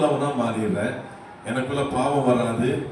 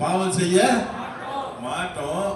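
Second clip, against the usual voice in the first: slightly raised prompt for the congregation; a bit louder; 2 semitones higher than usual. Shown as a demonstration. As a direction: repeat it up a notch to draw a response. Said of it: "சத்தமா சொல்லுங்க". (சற்று சத்தமாக)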